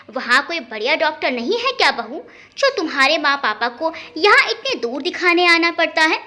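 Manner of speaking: a pointed, needling question; mildly biting, understated jab; sharp taunt. Acted. Aunt needling daughter-in-law about her parents' visits, mildly sharp. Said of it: "तल्खी से पूछा".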